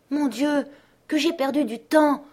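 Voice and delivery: high-pitched exclamation of dismay; a little girl realising she has lost time; high cry of dismay, a little girl. A narrator's reading. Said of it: "s'écria la petite Gerda".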